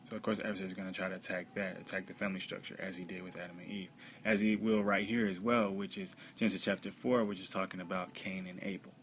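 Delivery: rapid, run-on explanation; talking really fast. Real, not acted. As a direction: hurry through the explanation. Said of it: "I'm talking really fast right now".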